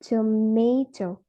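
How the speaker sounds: slow "tomato" with MA stressed; stress on second syllable. Shown as a demonstration. Student giving an example of stress says tomato slowly, second syllable stressed. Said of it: "the stress falls on the second syllables".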